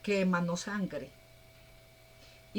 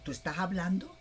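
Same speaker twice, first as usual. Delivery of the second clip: a loud startled yelp that fades into disbelief; startled Balaam; 5 dB louder than usual. Acted. Balaam hears his donkey speak, startled and loud. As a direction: jump at a talking donkey. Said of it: "Y le contesta Balaam".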